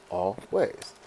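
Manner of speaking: "always" as two separate beats; split into syllables. Shown as a demonstration. Teacher showing that "always" has two syllables, split apart. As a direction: break "always" in two: al, pause, ways. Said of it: "Always has two".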